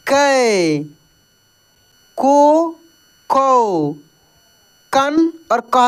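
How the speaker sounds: long vowels pushed with extra force; syllable drill. Shown as a demonstration. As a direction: chant each syllable, leaning on the long ones. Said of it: "दूसरे में जोर लगाया जाता है". (बड़ी मात्रा पर ज़ोर देकर उच्चारण)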